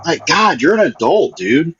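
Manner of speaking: angry. Real, not acted. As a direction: tell him off, fed up. Snaps at rude chat member.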